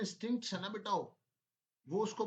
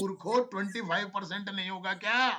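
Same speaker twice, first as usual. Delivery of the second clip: exasperated teacher; 4 semitones higher, 18 dB louder than usual. Real, not acted. Teacher correcting students' wrong answer.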